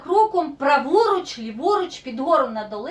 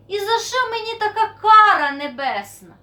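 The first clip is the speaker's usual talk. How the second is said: higher, louder wail to heaven; despairing lament; 6 semitones higher, 5 dB louder than usual. Acted. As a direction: cry out a mock-tragic complaint. Desperate plea to God in story. (розпачливе голосіння)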